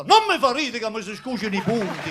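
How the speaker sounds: laughing hard, high and loud; trying not to laugh, but cracking up. Real, not acted. Laughing with fresh stitches.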